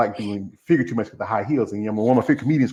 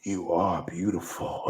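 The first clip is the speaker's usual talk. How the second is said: slow, much softer, voice catching; choked-up tribute; 4 semitones lower, 8 dB quieter, much slower than usual. Real, not acted. Guest tells the host she is beautiful, slow, softer, choked up. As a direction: say it slowly, fighting back tears.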